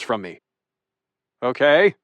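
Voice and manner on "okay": wobbly voice. Acted. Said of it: "with a slightly wobbly voice".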